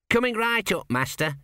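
high, bright lad answering his master; chirpy apology; the apprentice apologising brightly to his master; eager young apprentice. A narrator's reading.

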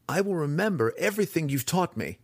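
promising. A narrator's reading. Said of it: "Drizzt promised".

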